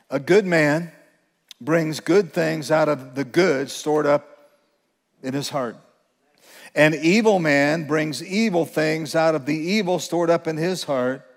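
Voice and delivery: each word weighed, slow and deliberate; slow, emphatic reading. Shown as a demonstration. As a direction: read it slowly, leaning on every phrase. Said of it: "I wanna read it slowly with great emphasis".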